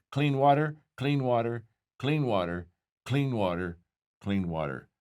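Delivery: "clean water" repeated in separate, even beats, stepping down in pitch; repeated refrain. Retold or imitated. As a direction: repeat "clean water" like a list, each one falling further. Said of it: "they just said it five times".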